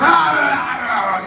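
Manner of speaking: loud, slow, drawn-out shouted ah; possessed crying out. Retold or imitated. Church visitor suddenly crying out, a loud slow possessed ah. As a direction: let out a long shout like a man possessed. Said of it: "Cambiando la voz".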